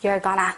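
you're gonna said slowly, carefully; slow model English. Shown as a demonstration. Teacher modelling for students, slow clear English. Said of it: "다시 한번".

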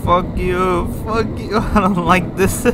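loud, high cursing breaking into laughter; nervous laughing. Real, not acted. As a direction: swear at it through scared laughter. Scared player swears at the monster.

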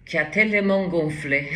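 laughing through the words. Real, not acted. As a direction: giggle while saying it. Laughs at her own image. (en riant)

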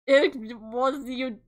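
drawn out, ominous and slow; mock-ominous slow reveal; slow dramatic accusation. Dramatic reveal line voiced.

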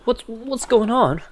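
high, slow, overwrought dub-actor whine; mocking anime dub voice. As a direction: parody a cheesy anime dub line. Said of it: "The, the anime dub kind".

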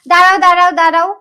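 loud, urgent cut-in; impatient interruption. Acted. Cuts him off, will call herself.

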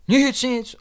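high, quick innocent protest; hasty denial. A narrator's reading. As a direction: brush it off fast. Everyone hastily denying.

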